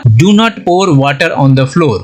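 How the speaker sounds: slow, careful English example sentence; slow example read. Shown as a demonstration. Teacher reading an example sentence slowly to students. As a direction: read it word by word. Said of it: "पोर से sentence बना".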